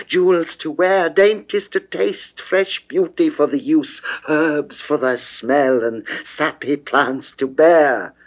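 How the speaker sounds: rising eager plea. Acted. Venus urging passionately, pitch raised.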